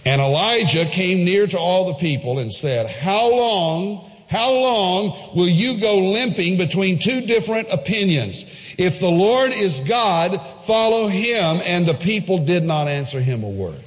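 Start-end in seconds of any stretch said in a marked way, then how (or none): 2.9-11.6 Elijah's challenge. Acted. Preacher voicing Elijah's challenge.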